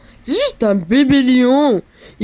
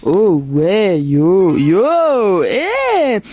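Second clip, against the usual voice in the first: hammy cartoon magic spirit; big showman spirit from a lamp; genie. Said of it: "le doublage du génie".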